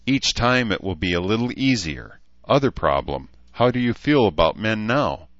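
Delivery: a hint of a matter-of-fact elf woman; lightly voiced blunt elf. Elf counselling a rape survivor, lightly voiced blunt elf.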